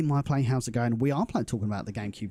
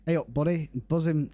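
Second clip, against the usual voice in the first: higher-pitched Northern English greeting; broad northern "hey up"; northern accent; 4 semitones higher than usual. Acted. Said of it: "said that in a northern accent".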